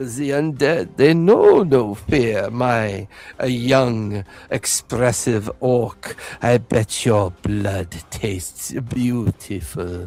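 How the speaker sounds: low, deep villain voice in a monologuing style. Voicing a villain taunting an orc mid-battle: Strahd voice. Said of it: "The Strahd voice echoes over the battle".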